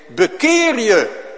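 high, loud, slow command; urgent pulpit call; call to repent. Acted. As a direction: thunder it out as a summons to repent. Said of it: "Dan zeg ik".

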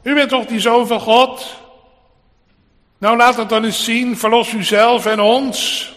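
high-pitched crowd taunt; crying out. Retold or imitated. Bystanders challenge the crucified Christ, crying out. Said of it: "Toen andere kruiselingen en omstanders riepen".

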